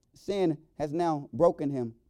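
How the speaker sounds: ordinary delivery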